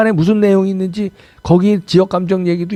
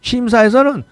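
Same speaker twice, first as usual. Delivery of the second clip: ordinary talk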